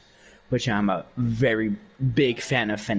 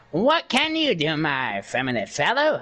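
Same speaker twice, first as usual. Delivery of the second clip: retold character voice, starting high; Alastor; 4 semitones higher than usual. Retelling a prank on a stranger, high radio demon impression. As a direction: lightly slip into a high showman voice. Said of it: "and I was like".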